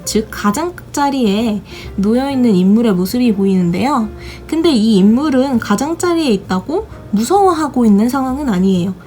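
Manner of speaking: ordinary talk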